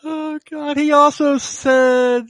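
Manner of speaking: breaking up laughing. Real, not acted. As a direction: laugh through it. Laughing fit.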